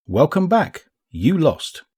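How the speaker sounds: high, smooth and self-assured companion; smooth ghost voice. A narrator's reading. Ghost greets Saladin on waking, high and smooth. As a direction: glide the words out, a sly ghost's welcome. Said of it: "her voice as smooth as verglar".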